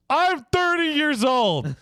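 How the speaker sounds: laughing scoff. Acted.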